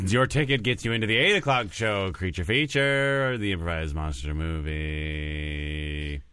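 mock creature-feature promo; show promo read.

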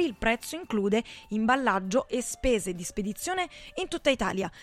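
upbeat radio commercial voice; ad read. Acted. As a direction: sell it like a radio spot. Radio ad continues.

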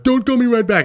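a hammed-up high girlfriend complaint; mock annoyed ex. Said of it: "they're like".

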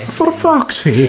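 real laughing frustration; laughing exasperation. Real, not acted. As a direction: laugh it out after losing the point. Groaning after losing the point.

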